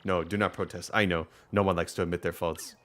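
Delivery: lightly voiced Russian-accented villager; firm villager in a loose Russian accent; rough Russian accent. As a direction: attempt a mild Russian accent. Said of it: "I'll just make 'em sound different".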